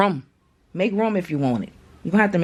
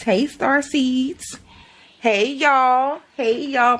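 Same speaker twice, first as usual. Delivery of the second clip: excited greeting; 6 semitones higher, much slower than usual. Real, not acted. Greeting her star seed viewers.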